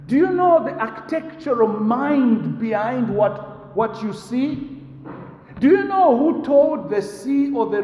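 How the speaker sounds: God questioning Job. Acted. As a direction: list the works of creation as their maker. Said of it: "He's saying".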